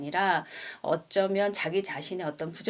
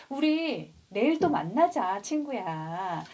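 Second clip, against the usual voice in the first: cheerful goodbye; slower than usual. Retold or imitated. One friend saying goodbye to the other, slow cheerful call. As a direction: call out a promise to meet tomorrow. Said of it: "두 친구가 뭐라고 얘기하냐면".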